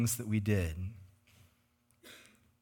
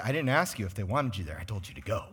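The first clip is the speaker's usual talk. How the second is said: understated firm command, sinking lower; firm Holy Spirit; 5 semitones lower, 3 dB quieter, faster than usual. Retold or imitated. Holy Spirit answering a hesitant believer, quietly firm. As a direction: settle the objection quietly, dropping at the end. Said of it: "the Holy Spirit will say".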